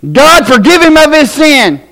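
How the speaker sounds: high-pitched, fervent praying preacher; imitated altar prayer. Altar minister praying over a man with a headache, imitated fervent prayer. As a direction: pray over him like an earnest altar minister. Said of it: "the guy was up there, and he goes".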